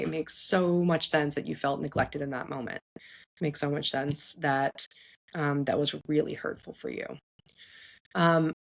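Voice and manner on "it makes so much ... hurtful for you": validate tenderly, slowing as it goes; soothing validation. Shown as a demonstration. Models validating the child's feelings.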